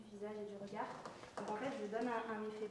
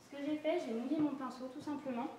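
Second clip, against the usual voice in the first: louder, to carry through the mask; speaking louder; 3 semitones higher, 5 dB louder than usual. Real, not acted. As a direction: project the voice for viewers. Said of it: "je vais essayer de parler plus fort".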